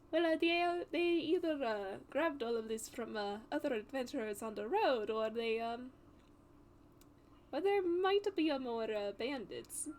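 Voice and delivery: lightly voiced, hesitant adventurer. Adventurer reasons aloud about where the loot came from, hesitant. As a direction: weigh it up haltingly, in character.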